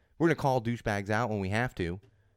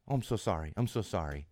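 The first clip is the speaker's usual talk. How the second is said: mock apology; 3 semitones lower, 4 dB quieter than usual. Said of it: "just issuing apologies".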